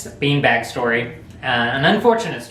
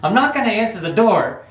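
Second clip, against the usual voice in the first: mock refusal; 6 semitones higher than usual. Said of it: "he goes".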